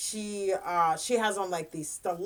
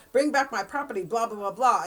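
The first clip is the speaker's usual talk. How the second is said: raised, higher mock yell; retold yelling; 3 semitones higher, 5 dB louder than usual. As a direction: imitate an angry man yelling after someone. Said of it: "he's yelling at him".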